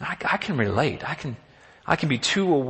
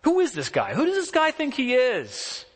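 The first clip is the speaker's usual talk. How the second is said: incredulous; 3 semitones higher than usual. Retold or imitated. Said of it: "this kind of incredulous voice that David has".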